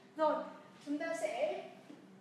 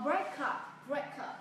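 "break up" drawn out slowly, each sound apart; much slower than usual. Shown as a demonstration. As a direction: stretch "break up" slowly as a model. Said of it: "lấy ví dụ". (đọc thật chậm "break up")

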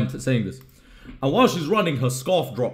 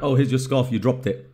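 offhand, easygoing; casual and relaxed; cool and casual. Retold or imitated. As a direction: hand it over like it's nothing. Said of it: "All cool and casual".

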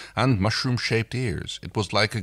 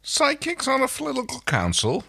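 wry, disbelieving question; mock it with a smirk. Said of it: "Crichton smirked".

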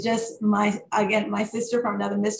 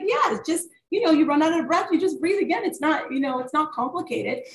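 put-on Spanish accent; 7 semitones higher than usual. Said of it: "in her Spanish accent".

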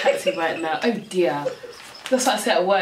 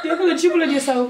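laughing; 4 semitones higher, much faster than usual. Real, not acted. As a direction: blurt it through laughter. Laughing at friend's stuffed mouth.

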